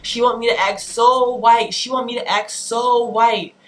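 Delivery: half-yelled mocking imitation; mock screaming complaint. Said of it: "he's, like, screaming".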